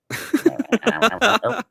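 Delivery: high loud burst of laughter; helpless giggling fit; laughing. Real, not acted. Voice glitch comedy.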